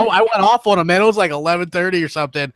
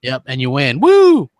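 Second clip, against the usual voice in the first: mock celebration; 6 dB louder, slower than usual. Mocking Sony's E3 win with a fake cheer. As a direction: whoop it up sarcastically. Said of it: "mock cheer for E3 winner".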